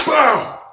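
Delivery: high, explosive "bow"; shouted impact sound effect; loud punch noise. Retold or imitated. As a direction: imitate a heavy blow landing. Imitating a hard punch.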